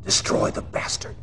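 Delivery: low unvoiced hiss of a command; menacing whispered command; hissed order. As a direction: spit the order out under the breath. Briefing villain's final order.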